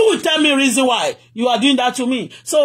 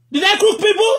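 outraged repeat; 8 semitones higher than usual. Real, not acted. Repeat pushed higher.

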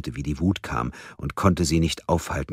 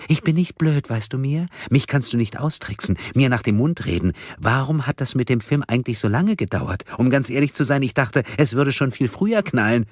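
a lightly voiced, higher mocking captor; menacing madwoman; 9 semitones higher than usual. Karen taunting bound Mia, cold mocking madwoman.

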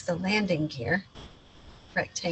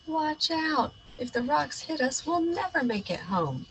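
higher, urgent alarm; alarmed warning; 7 semitones higher, 3 dB quieter than usual. Acted. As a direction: shout a warning to your dog. Meteor shower alarm.

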